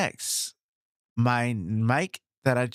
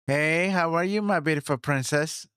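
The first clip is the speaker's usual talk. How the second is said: sweet greeting; 4 semitones higher than usual. Acted. Greeting his princess on mic.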